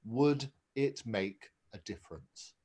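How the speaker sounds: calm wise reply. Retold or imitated. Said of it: "very wisely said".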